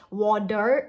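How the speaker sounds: "water" with a heavy D, wah-DER; "water" wrongly hardened to "wad-der"; over-hard D. Shown as a demonstration. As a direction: hit a strong D in the middle of "water". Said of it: "no, very soft".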